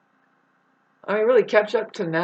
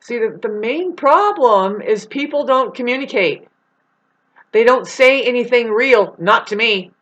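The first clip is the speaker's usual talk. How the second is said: irate; 4 semitones higher, 5 dB louder than usual. Real, not acted. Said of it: "pardon me while I get up all, like, irate".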